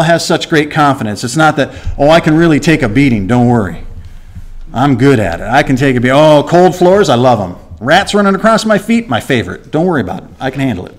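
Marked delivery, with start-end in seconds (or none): 2.0-10.9 breezy mock-tough boasting, lightly voiced; a hint of sarcastic swagger; mock bravado. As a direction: shrug off the hardship with fake cheer. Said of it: "He's not talking like that".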